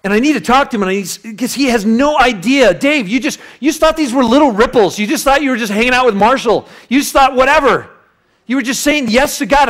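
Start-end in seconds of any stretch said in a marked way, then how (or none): 2.7-9.7 higher, louder passionate plea; rising preacher fervor; fervent appeal. Real, not acted. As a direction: preach it to Dave. Passionate address to absent Dave.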